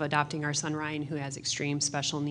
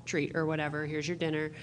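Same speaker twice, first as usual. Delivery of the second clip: mock praise. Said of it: "then you say".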